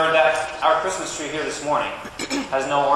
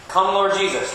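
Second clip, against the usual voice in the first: raised, higher-pitched call-out; far-carrying call; 5 semitones higher than usual. Shown as a demonstration. Minister shows children how to reach Harpersville, calling out. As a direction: call it out to the next town. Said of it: "say it so that Harpersville can hear it".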